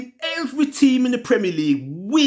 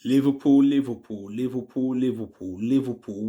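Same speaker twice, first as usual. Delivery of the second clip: despairing moan; 10 semitones lower, 4 dB quieter than usual. Real, not acted. Fan moaning club name in despair.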